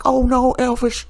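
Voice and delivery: very high, hammed-up frightened mother; mock panic. Mother warns E J his father is here, very high mock panic. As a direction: squeal it out like she's seen a ghost. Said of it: "And she's like".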